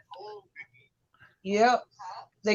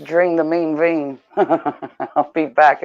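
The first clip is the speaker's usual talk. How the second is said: laughing; 3 semitones lower, slower than usual. Real, not acted. Joking, laughing while leaving.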